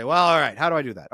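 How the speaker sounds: mock clueless guy. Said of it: "Then they say".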